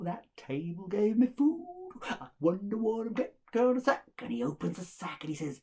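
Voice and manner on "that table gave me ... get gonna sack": mounting greedy glee. Acted. Innkeeper's greed builds.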